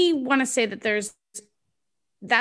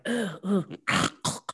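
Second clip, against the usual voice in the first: groaning ugh; 2 semitones lower, 5 dB quieter than usual. Retold or imitated. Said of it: "making the noises by yourself".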